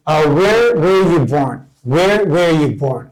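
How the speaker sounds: stretched out, word by word; very slow model. Shown as a demonstration. Teacher modelling a question for students, very slow. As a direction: drill it slowly for learners. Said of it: "teacher models the question".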